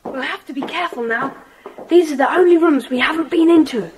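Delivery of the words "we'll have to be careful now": put-on boy creeping up to the top floor; whisper. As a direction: breathe it so no one upstairs hears. Creeping through the empty house.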